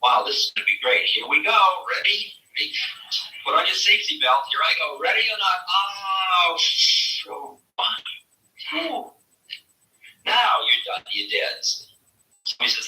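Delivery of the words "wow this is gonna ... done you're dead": high, bouncy excitement; like boarding a roller coaster; gleeful thrill ride. Acted. Dying soul cheering itself on, high gleeful excitement. Joyful soul riding into death.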